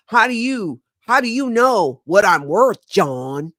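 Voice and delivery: a hint of Southern drawl on the question; rough Southern accent imitation. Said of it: "that Southern accent".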